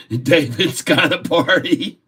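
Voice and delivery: words squeezed out through real laughter; laughing hard. Real, not acted. Streamer teasing David about baloney, laughing hard. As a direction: barely get the joke out for laughing. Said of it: "I laughed so hard just then".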